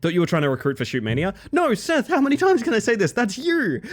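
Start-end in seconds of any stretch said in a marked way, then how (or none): 1.5-3.8 mock outrage. Mock outrage at chatter Seth.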